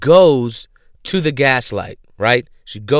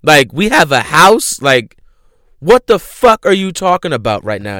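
loud, higher mock outrage of a baffled wife; confused disbelief; 5 semitones higher, 7 dB louder than usual. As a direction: retell her bewildered protest, punching it out. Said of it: "she's so confused".

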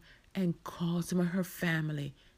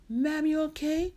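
higher, louder rising question; concerned passer-by; 9 semitones higher, 5 dB louder than usual. Acted. Passer-by asking Marcia if she is okay, concerned. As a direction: check on a stranger with concern.

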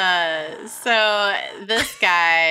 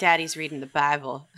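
put-on Southern accent; 3 semitones lower than usual. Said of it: "why we did a Southern accent".

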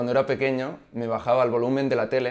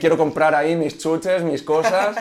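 excited; 5 semitones higher, 5 dB louder than usual. Retold or imitated. Kid pitching business idea.

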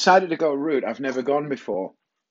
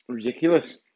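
ordinary delivery

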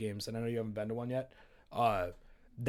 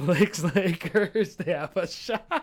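sarcastic hopeful line, higher; mock hopeful; 4 semitones higher, 6 dB louder, much slower than usual. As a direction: say it like you almost believe it. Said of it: "I can't even say it with a straight face".

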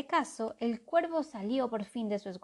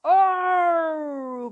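loud, high cry out; shout; 8 semitones higher, 11 dB louder than usual. A narrator's reading. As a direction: crow cries out. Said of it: "gritó Calderaus".

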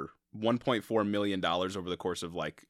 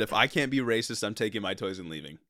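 mock racist boss. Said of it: "Bro literally said".

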